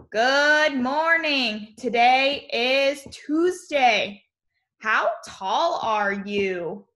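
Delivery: put-on slow, clear read-aloud for young kids; teacher reading the class message slowly; reading the morning message aloud. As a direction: read each word slowly so the class can follow.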